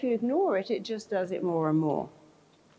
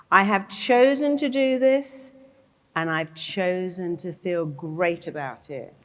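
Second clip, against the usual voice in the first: emphatic affirmation; 5 dB louder than usual. Shown as a demonstration. Models a life-changing affirmation emphatically.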